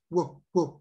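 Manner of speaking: short spoken woofs imitating a dog; two separate little woofs; dog bark. Shown as a demonstration. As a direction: demonstrate a dog's bark simply. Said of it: "A dog goes".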